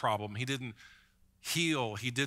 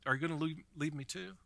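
sad question; 2 semitones higher, 3 dB quieter, faster than usual. Retold or imitated. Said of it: "Jesus looked at his disciples and said".

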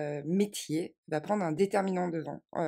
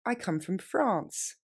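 slow and clear; slow model phrase; slower than usual. Shown as a demonstration. Teacher modelling an answer slowly. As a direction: say it slowly for learners. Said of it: "Je viens de France".

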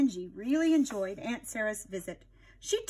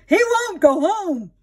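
pet store man on the phone; 9 semitones higher, 7 dB louder, slower than usual. Acted. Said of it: "he said".

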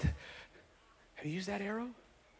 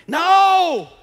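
louder, higher sharp no; sudden shout; 11 semitones higher, 10 dB louder than usual. Real, not acted. Preacher cuts off mock churchgoers with shouted no. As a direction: cut them off with a loud no. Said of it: "sudden shout".

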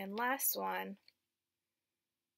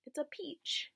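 put-on teacher saying peach for children to repeat; modelling the word; 5 semitones higher than usual. Shown as a demonstration. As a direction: model peach for the kids to copy. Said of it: "Can you say peach?".

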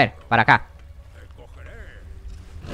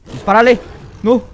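yelling from the sidelines; 8 semitones higher, 8 dB louder than usual. Real, not acted. Urging companion in a fight.

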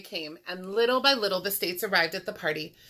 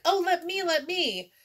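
put-on high, pleading kid-like chant; excited, raised-pitch plea; eager pleading; 11 semitones higher, 3 dB louder than usual. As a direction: beg to be picked. Colorado begs to tell the story.

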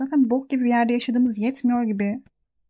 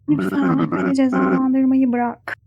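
mock plea; 7 dB louder, slower than usual. Pleading with game character.

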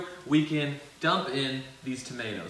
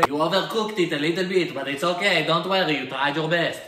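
a touch of a reassuring mom, a bit louder; 5 dB louder than usual. Retold or imitated. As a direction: kindly let him down easy. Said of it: "My mom would say".

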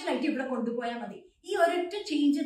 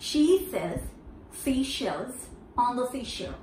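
broken into chunks; much slower than usual. Shown as a demonstration. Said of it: "For here it goes".

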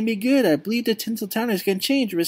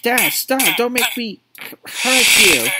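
louder, higher, slow final warning; desperate warning; 4 semitones higher, 5 dB louder, slower than usual. Acted. Son warning his father before the fight, loud and desperate. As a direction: plead and threaten at once.

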